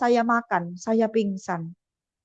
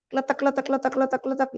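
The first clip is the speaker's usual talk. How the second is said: soft imitated clicking of stones, a bit quieter; stone clicking sound; 3 dB quieter than usual. Recalling kidney stones rattling out, soft clicking imitation. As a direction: mimic little stones rattling, kletek kletek. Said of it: "saya dengar suara batu".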